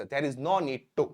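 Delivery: very slow, word by word, for learners; slow dictation. Shown as a demonstration. Teacher to students, slow clear dictation. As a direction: spell it out slowly so students can write. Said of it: "teacher dictates English structure".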